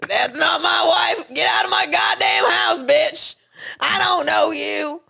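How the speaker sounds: hammed-up angry husband. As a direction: bluster a fake domestic row. Playing Harold yelling at wife.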